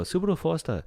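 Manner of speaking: a hint of the creepy ghost kid; lightly voiced creepy kid naming cars; imitating the ghost kid. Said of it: "every once in a while I go".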